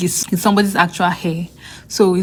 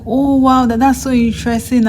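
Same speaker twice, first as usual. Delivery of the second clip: fascinated lab mate; 5 semitones higher than usual. Retold or imitated. Lab mate fascinated by the speaker's natural hair, high and excited. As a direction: imitate her fascination, pitched up.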